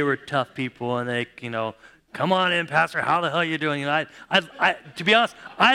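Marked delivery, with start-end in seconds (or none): 2.1-3.8 rowdy greeting. Retold or imitated. Biker crowd greets pastor.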